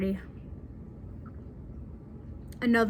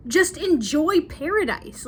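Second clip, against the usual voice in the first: higher and louder, a fed-up husband mimicked; exasperated Luke; 3 semitones higher, 4 dB louder than usual. Luke scolding Joan in the mountains, exasperated and raised. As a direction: play Luke snapping back at his whining wife. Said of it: "Luke is just like".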